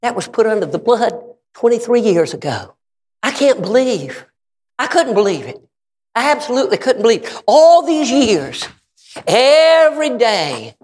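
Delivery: incredulous preacher, stretching key words; impassioned preaching. Real, not acted. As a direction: preach disbelief, swelling on the last phrases. Preaches his astonished reply.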